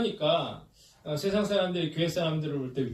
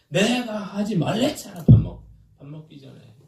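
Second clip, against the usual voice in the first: high, loud mock scolding; imitated shouting; 5 semitones higher, 7 dB louder than usual. Parent yelling back at spouse over jelly, imitated shouting. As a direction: act out the angry yell from the video. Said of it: "그랬더니 막 소리를".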